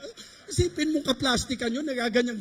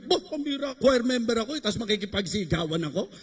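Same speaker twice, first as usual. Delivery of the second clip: mock rebellious choir member. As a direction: act out a defiant choir member. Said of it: "Yung halimbawa, naging rebelde kami". (kunwaring rebeldeng pagrereklamo)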